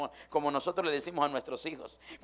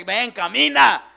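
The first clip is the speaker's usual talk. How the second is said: God's call; 8 semitones higher, 16 dB louder, much slower than usual. Acted. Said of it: "ahí estás para decirme".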